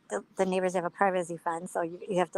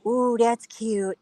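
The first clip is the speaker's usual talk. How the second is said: higher, drawn-out cooing; retold delight; 4 semitones higher, much slower than usual. Recalling finding Kira among dog names, charmed. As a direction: coo over it, stretched out. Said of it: "I go".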